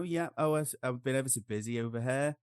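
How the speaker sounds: chatty Norwich country accent; English country accent. Shown as a demonstration. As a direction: rural English lilt, phone chat with a friend. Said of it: "we start talking like that".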